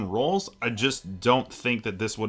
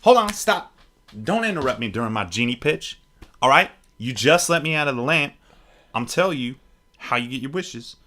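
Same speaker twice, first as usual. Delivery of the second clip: genie. Retold or imitated. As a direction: pitch wishes like a brash genie. Genie pitch performed.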